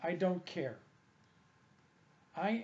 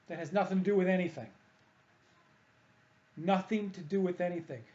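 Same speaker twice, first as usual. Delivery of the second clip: louder and fast, flat refusal; emphatic dismissal; 5 dB louder than usual. Real, not acted. Dismissing the front-foot cue to listeners, loud and emphatic. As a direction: slam the idea shut twice.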